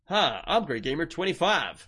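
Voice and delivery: mock gamer self-introduction voice; Gray Gamer. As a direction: imitate a streamer's put-on intro. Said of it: "does a Gray Gamer accent".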